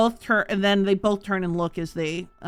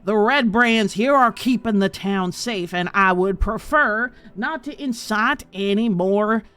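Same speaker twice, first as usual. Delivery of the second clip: put-on a stuffy old official, affronted and a bit louder; he bristles at an insult; pompous townmaster; 2 semitones higher, 4 dB louder than usual. Townmaster voice again.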